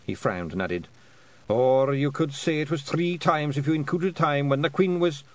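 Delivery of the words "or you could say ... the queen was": a pict bard recalling songs; lightly voiced Scottish bard; voiced bard William. William adding a detail.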